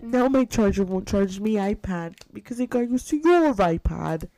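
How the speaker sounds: lightly put-on Irish lilt; mock Irish accent. Cohost keeps up the Irish accent game, mock complaint. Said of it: "An Irish accent".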